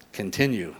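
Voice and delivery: low, quiet navigation prompt; GPS voice. Retold or imitated. Preacher quotes the GPS's easy command, low navigation voice. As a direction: lightly imitate a calm sat-nav. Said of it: "on my G P S when it says".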